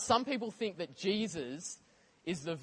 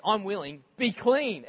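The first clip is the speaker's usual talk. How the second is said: higher, louder, with an exclamation mark; emphatic exclamation; 3 semitones higher, 6 dB louder than usual. Retold or imitated. Jesus to the leper, an emphatic exclamation. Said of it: "exclamation mark".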